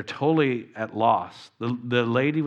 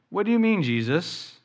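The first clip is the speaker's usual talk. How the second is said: baffled exclamation; 6 semitones higher than usual. Acted. Nicodemus baffled by Jesus.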